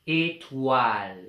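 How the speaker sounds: « Étoile » dit lentement, syllabe par syllabe; étirer « Étoile » pour faire entendre le wa; mot lent. Shown as a demonstration. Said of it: "On entend le son wa dans la deuxième syllabe". (maîtresse qui articule « Étoile » lentement)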